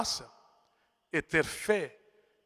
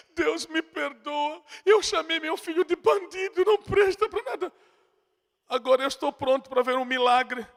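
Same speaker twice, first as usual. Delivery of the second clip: tearful repentance; 7 semitones higher than usual. Retold or imitated. Preacher voicing the weeping mother confessing to God, high. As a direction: let the plea break upward.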